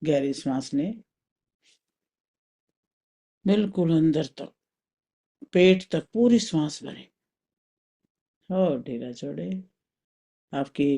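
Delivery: calm, spaced-out meditation guidance; guided meditation. Acted. Teacher leading a mental journey through the body, guided meditation. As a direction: guide them inward with long pauses.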